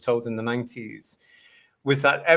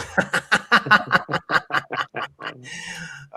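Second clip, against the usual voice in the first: burst of laughter; 4 semitones higher than usual. Real, not acted. Host laughing at a viewer's cheeky question.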